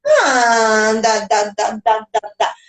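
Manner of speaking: lightly imitated baby babble; a hint of melodic baby babbling. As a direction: babble rhythmically, like an infant playing with sound. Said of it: "o neném começa".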